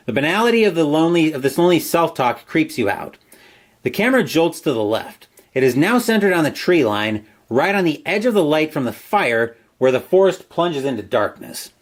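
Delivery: measured storyteller read; story narration. A narrator's reading. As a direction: narrate the eerie scene line by line. Reads gamebook story aloud.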